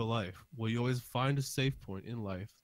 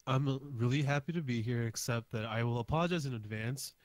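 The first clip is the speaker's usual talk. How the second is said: stuffy nose from allergies; talking through a blocked nose. Real, not acted. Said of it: "My nose is stuffed".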